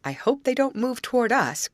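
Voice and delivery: high, breathless worried line; a frightened gasp of a wish. A narrator's reading. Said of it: "gasped Grace".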